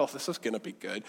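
low, quick, soft aside; mock onlooker relishing the drama under their breath; gossipy aside. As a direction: drop it low and quick, like a nosy neighbor. Neighbors' gleeful aside, acted.

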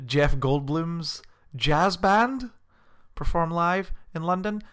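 drawn-out "Jeff Goldblum's jazz band", "London" lifted at the end; as if announcing news. Shown as a demonstration. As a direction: tell "Jeff Goldblum's jazz band" slowly, checking they follow. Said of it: "saying it in a way where, as if I'm telling you".

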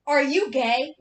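retold confrontational question; blunt confrontation. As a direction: put it to him loudly, like an accusation. Slams table, confronts him publicly.

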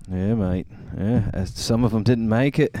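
put-on English rock-star accent; laid-back Liverpool English accent. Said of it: "I got Ringo Starr in the house".

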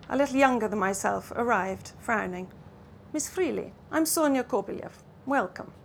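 an author reading her novel aloud, measured and clear; story narration. A narrator's reading. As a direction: tell it like a storyteller to a listening audience. Novelist reads from her book.

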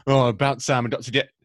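lightly put-on Yorkshire accent; imitated Yorkshire voice. Podcaster retelling a mystery voice on commentary, mock Yorkshire accent. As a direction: mimic a Yorkshire local chipping into commentary. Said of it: "this other voice that wasn't Gary Weaver".

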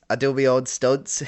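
proud laughing brag; laughing shout. Acted. Host brags to old colleague, laughing loudly.

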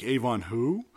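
mock puzzlement. Someone who never heard of the drug lord, mock puzzlement. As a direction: imitate a baffled questioner. Mimicking someone baffled by unknown kingpin.

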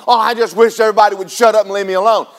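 quick, fed-up mock whine; mock exasperated complaint. Preacher imitating a frustrated churchgoer, mock exasperation. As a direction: rattle off a weary gripe. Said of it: "It isn't".

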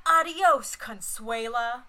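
mock action-hero yell; yelled one-liner. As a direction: deliver it like a cheesy action hero's kiss-off. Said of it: "David Arquette just yells".

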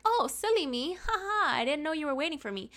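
high mock-giggly apology; fake ditzy. Her mocking what he expects her to say, fake ditzy. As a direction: play dumb with a put-on ha ha.

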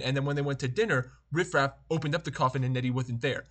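lightly put-on nerdy card-reviewer voice; slightly affected, geeky explainer delivery; Magic card reviewer. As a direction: talk like an earnest hobbyist reviewing cards. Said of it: "Why are you talking like this?".

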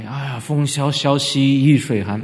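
lightly mock heroic poem; heroic recital. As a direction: recite like a doomed hero, tongue in cheek. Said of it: "壮士情怀". (略带调侃的壮士吟诵)

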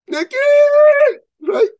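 high excited cry of a name; a high, thrilled yell; excited shout. Retold or imitated. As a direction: call out the name in delight. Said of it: "I was so excited".

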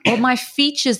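a real cough mid-sentence; coughing fit. Real, not acted. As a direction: cough then carry on talking. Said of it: "I've been coughing throughout this whole episode".

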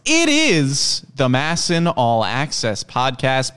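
drawn-out, swooping podcast intro; Paul Mancano impression. Host imitating his co-host to open the podcast, drawn-out impression. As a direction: stretch it out like a big announcer opening. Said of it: "doing his very best Paul Mancano impression".

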